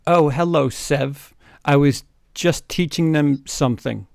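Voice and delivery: loud, sing-song false cheer; fake innocent villain. Co-host voicing the villain lying to a colleague. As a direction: cover the lie with hammy innocence. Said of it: "He lied".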